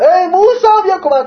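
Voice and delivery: high-pitched mock cry for help; acted-out appeal to someone; imitated call for help. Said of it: "با صدای بلند گفت".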